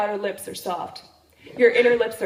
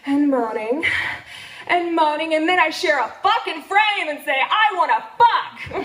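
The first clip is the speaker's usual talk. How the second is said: climbing higher and louder with each repeat; building excitement; 4 semitones higher, 4 dB louder than usual. Retold or imitated. Telling the crowd she shares a frame, rising excitement. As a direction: let the moans build to a laughing peak.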